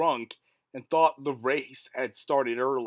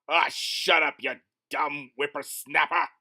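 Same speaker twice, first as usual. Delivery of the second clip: put-on old prospector; 2 semitones lower than usual. Grumpy old man retort.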